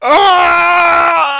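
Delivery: loud, high shrieking laugh; shriek of laughter. Real, not acted. Friend recalls hilarious moment.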